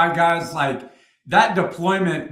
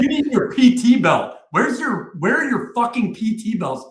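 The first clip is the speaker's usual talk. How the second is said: higher-pitched, mock-scolding sergeant; retold indignant demand; 5 semitones higher than usual. First sergeant confronts soldier about missing PT belts, retold indignant demand.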